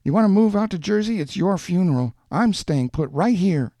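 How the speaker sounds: high, indignant woman's rant; angry tirade. A narrator's reading. Woman tells man she needs no saving, angry defiance. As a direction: let it rip, high and emphatic.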